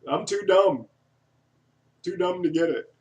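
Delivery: high, loud retold outburst; hammed-up loud blurting; mock shout. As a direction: call it out like a heckler, for laughs. Repeats the older man's outburst.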